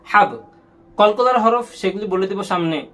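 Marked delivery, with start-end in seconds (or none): 0.1-0.3 হাব with a bounced, echoing final b; qalqalah bounce. Shown as a demonstration. Teacher showing pupils the echo letters, qalqalah bounce. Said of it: "এখানে একটা বাড়ি দিচ্ছি".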